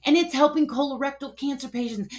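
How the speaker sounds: high, loud, gushing excitement; fast, thrilled, can't hold it in; freaking out. Retold or imitated. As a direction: blurt it out, pitch soaring. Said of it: "and I'm freaking out".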